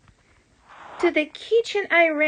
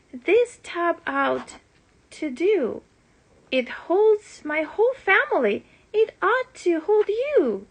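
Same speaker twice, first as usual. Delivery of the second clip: breathless, rising higher; out of breath; 5 semitones higher than usual. Acted. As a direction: pant it out, climbing in pitch. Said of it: "I panted".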